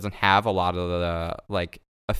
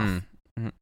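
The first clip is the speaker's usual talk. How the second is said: muffled hums; 2 semitones lower, 9 dB quieter than usual. Shown as a demonstration. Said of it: "you sound like you got a cock in your mouth".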